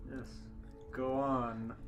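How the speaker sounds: ordinary delivery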